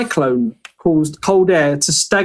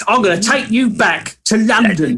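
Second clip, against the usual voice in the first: put-on cockney accent; 3 semitones higher than usual. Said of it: "Why did you do it in a Cockney voice?".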